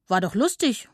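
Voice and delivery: leicht grunzige Schweinchenstimme; grunzende Schweinchen. A narrator's reading. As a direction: sprich es wie ein vergnügtes Schweinchen. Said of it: "grunzten die Schweinchen". (angedeutetes Grunzen)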